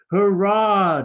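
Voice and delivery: high, loud cheer of joy; shouted. A narrator's reading. Little gnome cheering as he finds the twinkle, loud shout. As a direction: shout it out in triumph. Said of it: "Jerome shouted".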